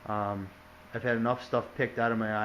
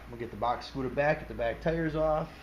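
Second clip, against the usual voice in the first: hiccuping mid-sentence; words broken by a hiccup; 2 semitones higher than usual. Real, not acted. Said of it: "Been fighting the hiccups tonight".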